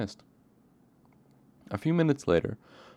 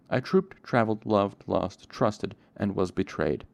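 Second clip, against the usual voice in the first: bitter summary; 5 dB louder, slower than usual. Acted. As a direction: rattle off a life, punching each verb. Character dashes off his whole story.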